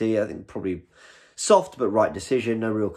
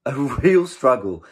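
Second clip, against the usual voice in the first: laughing repeat; 4 semitones higher, 6 dB louder, slower than usual. Real, not acted.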